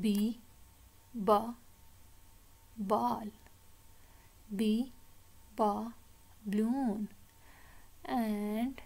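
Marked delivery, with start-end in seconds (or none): 0.0-7.1 "B", pause, firm short "ba", pause, "ball"; letter, sound, word. Shown as a demonstration. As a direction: drill "B, ba, balloon" in spaced beats. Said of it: "The next word is ba, sound". ("B, ba, ball" ज़ोर से, रुक-रुककर)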